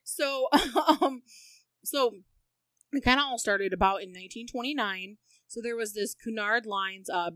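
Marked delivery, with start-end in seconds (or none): 0.0-5.2 talking around an ice cube; ice in mouth. Real, not acted. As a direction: speak with ice on the tongue. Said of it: "I got an ice cube".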